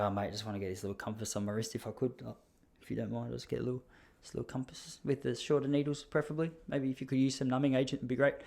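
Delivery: soft, hesitant mock-timid customer; meek request. Nervous customer asks big tattooist for a little compass, meekly. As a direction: play it small and apologetic, hurrying quietly at first.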